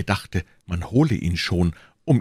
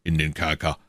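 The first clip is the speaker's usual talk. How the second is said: lightly voiced, level official; matter-of-fact commissioner. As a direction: state the order evenly. Commissioner gives an order.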